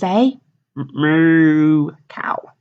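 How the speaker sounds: slow hushed whisper for the reveal; whispered moo cow. Real, not acted. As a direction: breathe it like a secret. Teacher introduces Megan's favorite animal.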